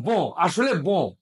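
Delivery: বো drawn out slowly, each sound clear; slow demo. Shown as a demonstration. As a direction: say বো very slowly for the learner. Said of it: "আমি একসাথে বলছি".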